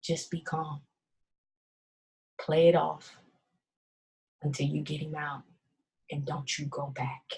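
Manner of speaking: very soft, calm guiding voice; soft, low, calm ancestral whisper of advice; grandmother's voice. Retold or imitated. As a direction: hush it like a spirit in her ear. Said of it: "I hear this voice".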